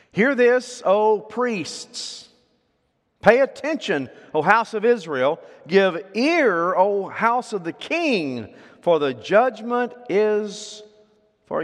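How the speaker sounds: loud, high prophetic call; proclaiming. Acted. Preacher calling the nation to hear, proclaiming loudly. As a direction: cry it out to the whole nation.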